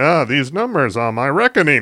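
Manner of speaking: high, teasing caricature voice, poking fun. Describing Bane as the accountant of the Legion of Doom: Bane voice. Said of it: "trying to make fun of my voice".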